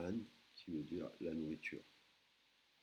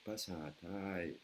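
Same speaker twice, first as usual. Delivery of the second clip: slow syllables; much slower than usual. Shown as a demonstration. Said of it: "Le langage".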